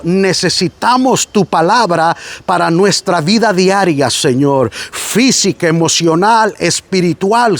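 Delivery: closing prayer. Real, not acted. Preacher prays over the congregation, earnest and pleading. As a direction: lead the church in heartfelt prayer.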